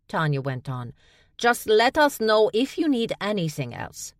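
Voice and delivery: high, loud, cheery official; chirpy assistant reading a notice; Tonya's voice. A narrator's reading. Tonya character voice.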